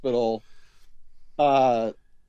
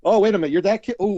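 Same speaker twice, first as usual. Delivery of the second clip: higher, louder mock realization; mock surprise; 8 semitones higher, 8 dB louder, faster than usual. Joking as the coach recognizing the sick kid. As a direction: act shocked at recognizing him. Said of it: "playing the coach's reply".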